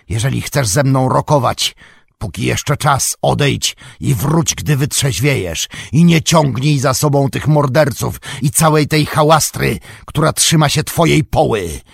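loud, high, scornful shouting. A narrator's reading. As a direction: hurl the mockery down from the balcony. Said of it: "podnosząc głos do krzyku". (głośny, wysoki, szyderczy krzyk)

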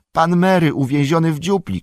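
high, panicked outcry; alarmed cry. A narrator's reading. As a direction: cry out that a friend is in danger. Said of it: "krzyknął Sam".

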